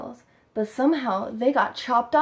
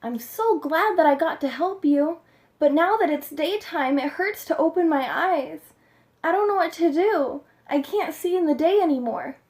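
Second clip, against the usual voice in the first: owl's voice; 6 semitones higher than usual. A narrator's reading. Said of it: "He said".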